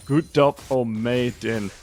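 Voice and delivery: slow, unsure Vietnamese reading of "Gut Dup O Mei Din"; halting Vietnamese attempt. Shown as a demonstration. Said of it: "No, that's not right".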